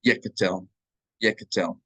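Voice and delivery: Yekatel with a short quick e on the first syllable, stress at the end; quick schwa demo. Shown as a demonstration. Teacher modelling Yekatel for students, quick schwa. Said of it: "vocal schwa is a quick E".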